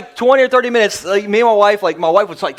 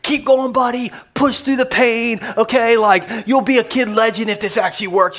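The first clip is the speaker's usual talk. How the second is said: pumping him up; 3 semitones higher than usual. Retold or imitated. Dad retelling how parents urged son on, pumping him up. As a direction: urge a kid on with mild hype. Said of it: "trying to pump him up".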